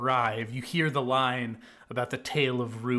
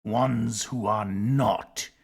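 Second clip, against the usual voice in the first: slow, drawn-out serpent voice; snake voice; slower than usual. Acted. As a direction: stretch each word like a snake. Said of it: "be doing the snake impression the whole time".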